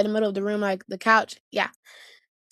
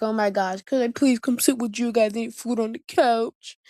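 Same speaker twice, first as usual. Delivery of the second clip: puppy-eyed plea. Retold or imitated. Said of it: "with a little baby puppy eyes".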